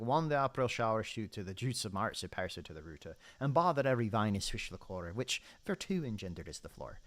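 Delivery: mock Middle English accent, loud and sing-song; weird old-timey accent. Shown as a demonstration. Gamer reciting Chaucer's opening to viewers, mock olde accent. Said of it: "I put on a weird accent to say it".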